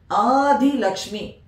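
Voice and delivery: Adi said slowly with both syllables clear, A then di; stressing Adi. Shown as a demonstration. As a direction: separate the two syllables of Adi gently. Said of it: "The two syllables of Adi".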